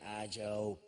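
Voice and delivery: a hint of a whispered backstage cue; mock stage whisper. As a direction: hiss the name like a hidden prompter. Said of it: "it was all very".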